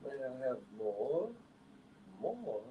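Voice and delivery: lightly voiced pleading orphan; high, quiet begging plea; fluttering cries for help. Oliver Twist begging again.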